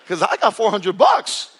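laughs through the words, slow and loud; laughing. Real, not acted. Laughing to the church about the four hundred dollars. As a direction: laugh it out at your own joke. Laughing at his own story.

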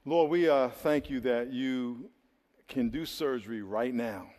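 slow, reverent prayer voice; hushed pastoral prayer. Acted. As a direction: pray slowly over the congregation. Leads a prayer.

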